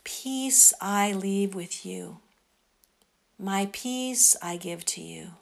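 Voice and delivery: slow, gentle meditation voice; guided meditation. Acted. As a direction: lead them calmly into prayer. Quoting Jesus in meditation.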